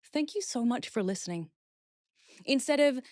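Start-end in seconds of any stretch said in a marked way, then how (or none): 0.0-1.5 grateful example. Shown as a demonstration. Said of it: "you would say".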